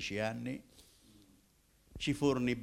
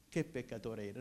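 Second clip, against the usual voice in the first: softer, dropped repeat of the phrase; quiet echo; 6 dB quieter than usual. Shown as a demonstration. Preacher repeating his confession to the congregation, softer. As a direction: let it sink in, said softly to yourself. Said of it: "Eppure che peccatore ero".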